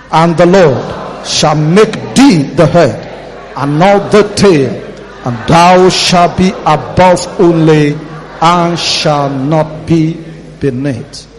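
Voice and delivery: slow, drawn-out prophetic decree; prophetic proclamation. Shown as a demonstration. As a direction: declare it like a prophet. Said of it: "read it like a prophet".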